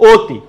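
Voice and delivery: অতি as "oti", first vowel closed; closed o pronunciation. Shown as a demonstration. Teacher answering the drill question, অতি pronounced "oti". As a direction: start অতি on a clear o, not an open vowel. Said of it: "এটার উচ্চারণ কি হবে?".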